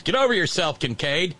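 hammed-up preachy reprimand; mock scolding. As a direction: scold Kincaid like a fed-up deacon, lightly voiced. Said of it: "Brother Deacon Asa says".

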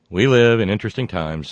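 light, hammy Aussie twang; cheesy Australian accent. Pretend. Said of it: "my cheesy Australian accent".

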